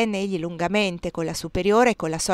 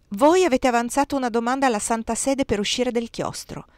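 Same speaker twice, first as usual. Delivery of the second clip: honeyed voice; 4 semitones higher than usual. Acted. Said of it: "con voce melliflua".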